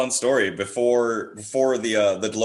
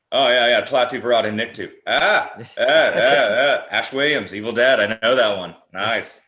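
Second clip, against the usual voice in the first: excited fan; 7 dB louder than usual. Retold or imitated. Imitating a fellow horror fan.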